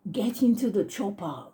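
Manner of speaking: lightly imitated Austrian action-hero accent; mild mock Austrian accent; Arnold Schwarzenegger. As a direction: try out a silly Austrian accent, half-committed. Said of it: "do that silly accent".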